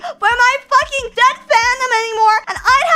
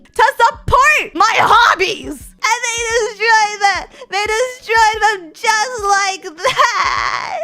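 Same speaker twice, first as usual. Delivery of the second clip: mock sob; slower than usual. Fake sobbing outrage.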